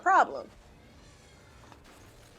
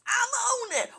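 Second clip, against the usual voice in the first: pitched-up crying echo of the line; mock movie hero echo; 9 semitones higher, 3 dB quieter, slower than usual. Viewer echoing the film character, crying mock panic. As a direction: parrot the character's panicked reply.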